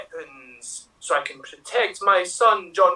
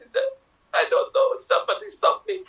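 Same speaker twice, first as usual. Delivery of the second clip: high, crying panic; hammed-up high frightened cry; mock panic; 13 semitones higher than usual. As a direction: plead like someone losing control. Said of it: "you are going to be Linda Hamilton".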